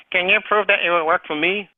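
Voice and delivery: a hint of whiny prospect. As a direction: lightly whine the objection. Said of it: "use that whiny voice".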